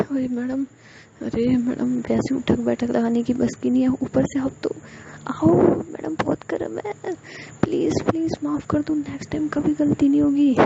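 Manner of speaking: high-pitched begging, voice strained; desperate pleading. Acted. Member begs madam to stop the hot punishment, high and pleading. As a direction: plead for mercy as the heat burns.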